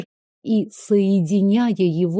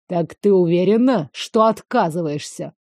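menacing hiss; 4 semitones lower than usual. Acted. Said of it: "угрожающе прошипел он".

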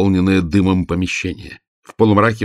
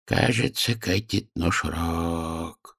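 put-on quiet old man; 8 dB quieter, much slower than usual. A narrator's reading. Old worker quietly warning the girls, hushed and slow. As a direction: murmur it under your breath. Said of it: "тихо проговорил сгорбленный старик".

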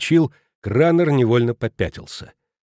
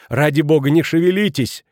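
higher, louder urgent plea; cried out; 4 semitones higher, 5 dB louder than usual. A narrator's reading. Neighbour woman begging the injured man to lie still, crying out. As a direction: exclaim in alarm. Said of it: "закричала госпожа Кранер".

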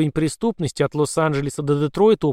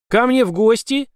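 horrified, higher and louder; 8 semitones higher, 5 dB louder than usual. A narrator's reading. Clerk hearing the monster may visit, horrified. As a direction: recoil in horror at the idea. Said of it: "ужаснулся Хаммельсфорд".

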